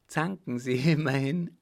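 amused taunt. A narrator's reading. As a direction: taunt her with light amusement. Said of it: "lachte er".

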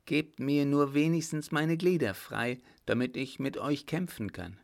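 high, loud defiant challenge; defiant cry. Acted. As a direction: dare him to fight. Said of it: "rief sie".

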